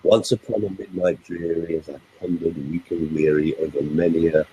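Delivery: low, measured verse reading; poem recital. Shown as a demonstration. Speaker quoting a rhythmic poem as example, low recitation. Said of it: "it's very, very alliterative".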